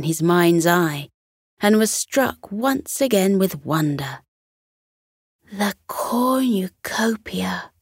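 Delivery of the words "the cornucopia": awed breathless whisper, slow. Acted. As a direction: whisper it in wonder. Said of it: "he whispered".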